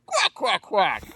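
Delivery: high quacks dropping on the last; duck quacks. Acted. Performer sarcastically doing requested tricks, duck quacks. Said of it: "quack like a duck".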